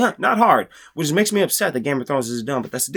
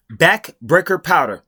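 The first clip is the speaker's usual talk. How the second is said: slow mocking repeat; slower than usual. Shown as a demonstration. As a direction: spell out Backbreaker powder slowly, each part drawn out. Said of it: "This is how smart Brandon Sanderson is".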